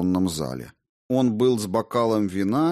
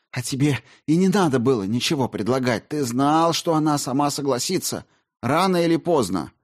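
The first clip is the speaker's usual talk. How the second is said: heated; 7 semitones higher than usual. A narrator's reading. Olga pressing the accusation.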